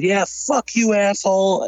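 so mad. Retold or imitated. Brother turning on a toy seller, mock mad. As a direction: imitate an angry comeback without raising the volume. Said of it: "Chris got so mad".

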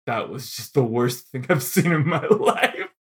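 slow, over-the-top mock dejection; imitating crushed, disappointed theatregoers; comically dejected. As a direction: drag it out in hammed-up despair, laughing at the end. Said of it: "dejected over what they, like, comedically over the top".

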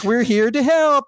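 bright, slow, upbeat host line; cheery TV host voice. Retold or imitated. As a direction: greet like an eager makeover host. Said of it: "they come over, like".

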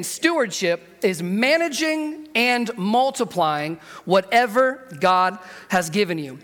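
slow, spaced-out delivery of the definition; deliberate restatement. Shown as a demonstration. Preacher repeating a key definition to the congregation, slow and deliberate. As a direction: say it slowly so every phrase lands. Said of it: "Let me say that again".

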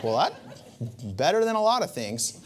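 a laugh through the words; amused shrug, laughing it off. Retold or imitated. Laughing at his sister-in-law's thumbs up.

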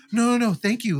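retold eager employee, voice lifted; eager reassurance. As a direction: act out anxious-to-please agreement. Employee hastily reassuring the manager.

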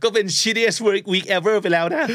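milk a tiny complaint for drama; hammed-up exaggeration. Teacher mocking a friend's mild work week, high and slow.

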